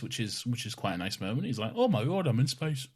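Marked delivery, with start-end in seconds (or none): 1.8-2.9 put-on old man voice. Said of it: "I was just doing a, an old man".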